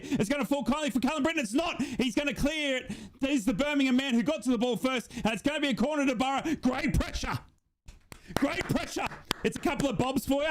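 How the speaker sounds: excited football commentary, pitch riding the action; live play-by-play. Real, not acted. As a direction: call the match live as chances come.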